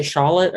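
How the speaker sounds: "Charlotte" with a slightly softened R. Shown as a demonstration. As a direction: ease off the R in "Charlotte". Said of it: "soften my R's a little bit".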